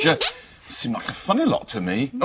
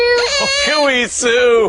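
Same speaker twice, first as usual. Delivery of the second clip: high, louder joyful cooey; delighted call; 10 semitones higher, 5 dB louder, much slower than usual. Real, not acted. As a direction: greet her back with glee. Happy reunion calling out.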